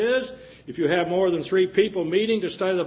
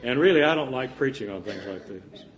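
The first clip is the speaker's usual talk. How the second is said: laughing; 4 semitones lower than usual. Real, not acted. Laughs at his own joke.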